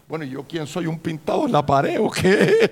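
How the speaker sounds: rumbling indignation. Acted. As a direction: act out a slighted God, swelling to a loud challenge. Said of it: "como que crujía y decía".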